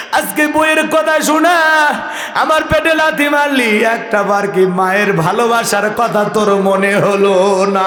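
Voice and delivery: chanted lament of a hurt mother; tearful mother. Retold or imitated. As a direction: plead in a sing-song wail, surging on the reproach. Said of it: "কাঁদে আর বলে". (কান্নার সুরে মায়ের অভিযোগ)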